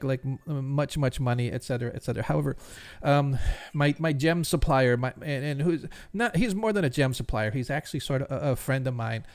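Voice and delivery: a hint of a stammering, anxious jeweler; nervous jeweler. Jeweler asks the adventurers for help, lightly voiced stammering. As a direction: stumble over the words, eager but timid.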